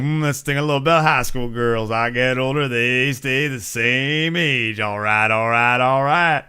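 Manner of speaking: lazy, slowed-down mock of the actor; half-hearted celebrity impression of the famous line; Matthew McConaughey. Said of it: "It's not like Matthew McConaughey".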